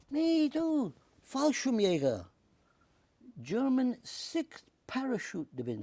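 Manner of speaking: imitating a proud German paratrooper, high and loud; German accent. German veteran boasts his unit.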